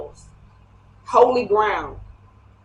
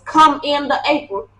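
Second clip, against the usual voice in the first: slightly higher-pitched grandma voice; lightly put-on grandma, a little raised in pitch; 4 semitones higher than usual. Reader quoting a saying to viewers, grandma voice. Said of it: "say in my grandma voice".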